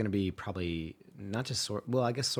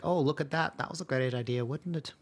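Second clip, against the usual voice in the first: sarcastic; 7 semitones higher than usual. Retold or imitated. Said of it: "be like".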